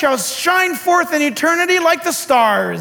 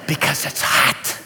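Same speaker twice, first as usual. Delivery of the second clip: deadpan aside; 10 semitones lower than usual. Real, not acted. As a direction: drop it to a dry whisper. Deadpan punchline about summer.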